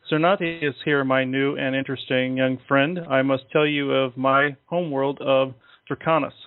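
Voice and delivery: measured, lightly formal recital; channeled message reading. Acted. Alien tells new friend of his homeworld, measured recital. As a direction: read it out as a solemn message, with pauses between phrases.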